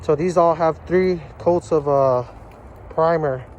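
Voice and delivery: talking through a face mask; muffled voice behind a mask. Real, not acted. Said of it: "I'm sorry if my voice sounds muffled".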